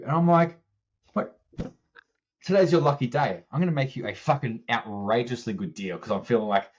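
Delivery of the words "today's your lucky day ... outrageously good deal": sassy. Retold or imitated. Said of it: "I was just feeling a little bit sassy that day".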